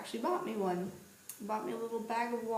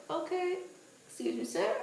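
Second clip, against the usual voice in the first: urgent excuse me; 8 semitones higher, 3 dB louder than usual. Retold or imitated. Retold urgent pushing past to vomit.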